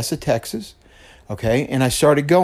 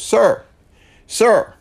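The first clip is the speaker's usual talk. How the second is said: high, louder call from the stage; 10 semitones higher, 6 dB louder than usual. Retold or imitated. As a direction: imitate a pastor hailing someone. Pastor calls out to seated man.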